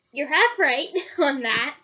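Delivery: chuckling through the words; laughing. Real, not acted. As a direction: laugh while answering. Laughing aside about Ginny.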